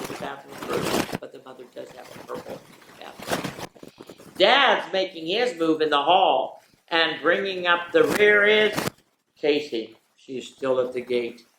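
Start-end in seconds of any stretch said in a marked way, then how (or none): 4.4-11.5 raised, excited play-by-play call; race announcer. Acted. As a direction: call the start like a horse race. Mock horse-race call of family morning.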